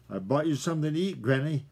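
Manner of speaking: quick, a touch out of breath; panting. Acted. Young fox, out of breath after running home, mildly panting. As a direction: gasp it out after a long run. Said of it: "he panted".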